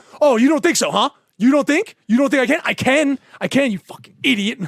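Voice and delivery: put-on high, loud, escalating defensive outburst, losing it. Imitating a friend freaking out when doubted: imitating someone freaking out. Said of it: "and then Adam starts freaking out".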